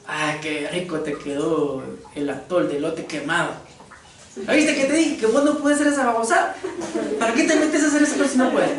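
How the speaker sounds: sarcastic scolding. Acted. Preacher acting a spouse mocking burnt atol, sarcastic scold. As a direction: needle the spouse for burning the atol.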